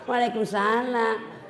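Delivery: slow coquettish greeting; mock sultry answer. Preacher mocking a woman answering sweetly on a video call. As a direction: stretch it out sweetly and coyly.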